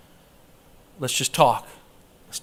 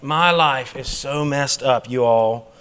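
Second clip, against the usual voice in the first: mock self-pity; 5 semitones lower than usual. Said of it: "You don't go on Facebook and say".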